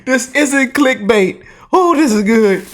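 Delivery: high, gloating glee; crowing with mock tears of joy; gleeful excitement. Real, not acted. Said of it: "I'm gonna cry tears of joy".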